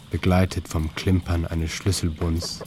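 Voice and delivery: ordinary delivery, nothing marked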